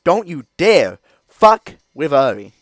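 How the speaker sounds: loud, high, slow warning shout. Real, not acted. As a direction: drag it out as a loud threat. Repeated warning, shouted then calm.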